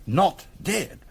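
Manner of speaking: jolted by the news; startled disbelief. Acted. Hears the ringer is alive.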